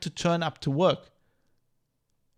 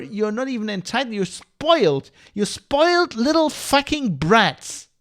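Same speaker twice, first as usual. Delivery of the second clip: angry rant; 4 semitones higher than usual. Real, not acted. Ranting at entitled workers.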